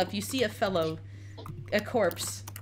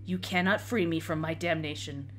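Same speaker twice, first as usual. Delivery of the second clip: low, grim knight voice; a hint of a doomed knight, lower; doomed undead knight; 3 semitones lower, 5 dB quieter than usual.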